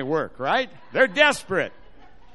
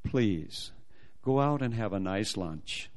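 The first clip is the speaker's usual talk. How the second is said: low, soft, courteous reassurance; smiling official; 9 semitones lower, 7 dB quieter than usual. Retold or imitated. Embassy lady sending him to lunch, gently reassuring with a smile. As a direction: send him off kindly, pausing between phrases. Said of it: "Big smile comes on her face".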